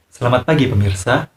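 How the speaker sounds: "Selamat pagi, pemirsa" said brightly with rising "pemirsa"; news greeting. Shown as a demonstration. Teacher demonstrating a friendly greeting to the audience. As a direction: greet the viewers like a presenter.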